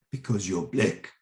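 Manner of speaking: lightly imitated fan quoting a film line; delighted catchphrase quote. Rapper greeting the actor with his film line, lightly imitated. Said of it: "his face broke into this huge smile".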